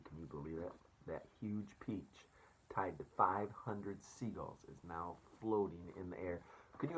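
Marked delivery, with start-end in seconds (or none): 1.1-2.3 slow unvoiced hush; awed whisper. Real, not acted. Teacher marvelling to students, slow whisper. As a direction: breathe it in wonder. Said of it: "awed whisper to class".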